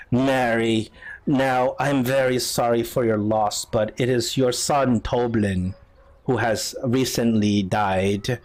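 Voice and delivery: slow, low condolence; solemn prosecutor. Acted. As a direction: question a grieving witness gravely. Prosecutor questions grieving mother in court.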